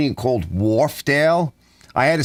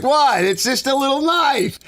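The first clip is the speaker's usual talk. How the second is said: high-pitched, raised-voice protest; retold protest; 13 semitones higher than usual. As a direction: act out incredulous innocence.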